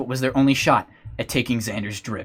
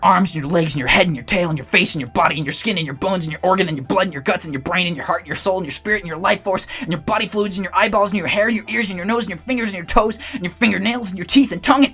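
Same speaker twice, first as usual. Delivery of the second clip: hungry armadillo Chonky; 2 semitones higher than usual. Acted. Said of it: "says Chonky".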